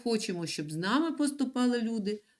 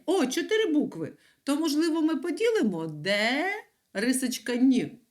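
mock wrong guess; 6 semitones higher, 3 dB louder than usual. Teacher feigns a wrong guess.

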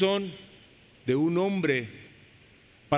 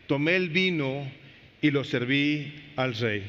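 slow, measured Bible reading; solemn slow reading of the verse; scripture reading; slower than usual. Acted. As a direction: read it out slowly like holy text. Preacher reads scripture aloud.

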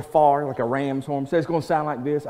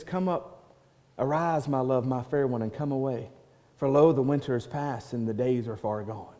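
tender lover's call; 3 semitones lower, 5 dB quieter than usual. Acted. Shepherd speaks to his beloved.

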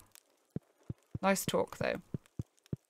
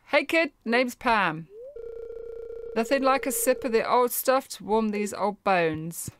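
lightly voiced gruff old woman; 4 semitones higher than usual. Reads Pam's dialogue.

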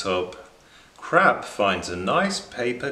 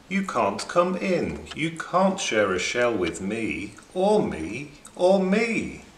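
snooty shell creatures. Acted. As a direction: refuse the crab with a hint of snobbery. Creatures refusing crab a shell.

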